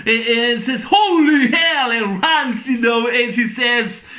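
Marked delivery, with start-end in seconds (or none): 0.9-1.9 mock-startled cry, high and loud; startled exclamation. Fletcher spots Amanda and runs, retold as a startled cry. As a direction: stretch it out, loud and alarmed.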